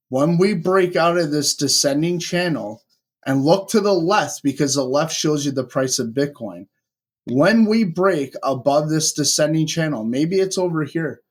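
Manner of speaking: wired and rushing on espresso; over-caffeinated, racing through it; too much caffeine. Real, not acted. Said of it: "I'm wired right now".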